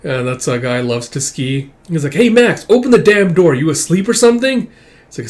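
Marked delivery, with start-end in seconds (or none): 2.1-4.7 loud, raised demand through a door; impatient calling out. Acted. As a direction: holler at someone who won't open up.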